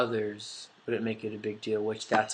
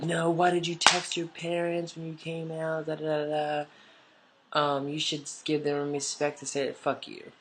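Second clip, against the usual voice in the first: high mimicking voice, strung out; mock the critics in a raised, whiny singsong; put-on nagging commenter; 5 semitones higher than usual.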